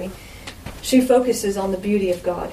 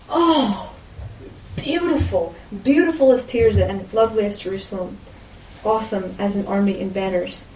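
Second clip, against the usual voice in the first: tender, moved. Acted. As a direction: speak it as Jesus, deeply moved. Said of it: "And this is what he says".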